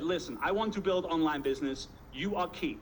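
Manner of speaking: lightly faked Russian accent; mock Russian accent, earnest proposal; bad Russian accent. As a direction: make the pitch in clumsy Russian-accented English. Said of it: "this is my very bad Russian accent".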